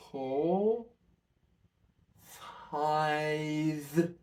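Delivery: slow count with the tongue stuck out. Shown as a demonstration. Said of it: "try this, nice and slow".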